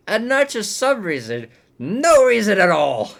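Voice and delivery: can't believe what he's seeing; rising outraged ranting; incredulous rant. Real, not acted. Ranting about absurd plot.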